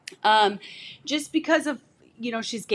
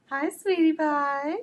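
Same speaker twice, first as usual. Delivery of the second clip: cooed, drawn-out endearment; 5 semitones higher, slower than usual. Real, not acted. Parents greeting their baby.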